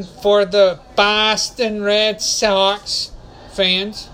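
slow Boston accent on Red Sox. Shown as a demonstration. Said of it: "hopefully I said it with true Boston accent".

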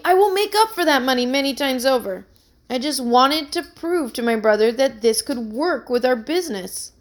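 eagerly. Acted. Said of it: "he said eagerly".

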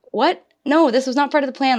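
a retold rush of shock; panicked disbelief. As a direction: blurt it out in alarm. Retold panic at being alone.

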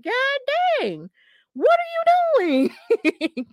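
high, slow drawn-out cry of disbelief; stretched, squeaky what-are-you-doing; shocked disbelief. Retold or imitated. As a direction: squeal it out like you can't believe what you're seeing. Retelling own reaction to kicks.

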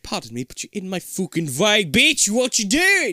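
a bad British accent. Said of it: "worst British accent ever".

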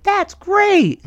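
high, airy sarcastic "That's great"; mock dumb girl voice. Girlfriend mocked as dumb, squeaky high voice. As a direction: play her as clueless and chirpy. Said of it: "And she was like".

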